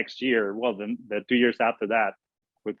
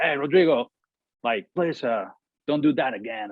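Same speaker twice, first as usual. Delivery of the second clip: retold fired-up scolding; 3 semitones higher than usual. Catcher to pitcher back in the dugout, mildly fired up. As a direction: imitate a worked-up teammate, only lightly. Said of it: "all fired up, and he was like".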